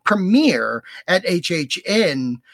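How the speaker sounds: measured, dramatic promo reading; announcer read. Acted. Host reads haunt show announcement to listeners, announcer style. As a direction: read the show blurb with theatrical emphasis.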